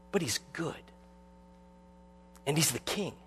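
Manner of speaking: hushed, reverent reassurance; Mister Beaver. Acted. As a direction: drop to a soft, weighty hush. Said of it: "And Mister Beaver responds".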